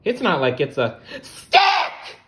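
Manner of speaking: high, loud nervous reassurance; nervous self-talk. Acted. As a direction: spider talking himself out of fear, high. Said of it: "he told himself".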